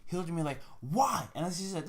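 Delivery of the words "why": higher, louder incredulous question; imitated disbelief. Friend balking at buying her a purse, imitated disbelief. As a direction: act out a friend's baffled protest. Friend's baffled look, acted out.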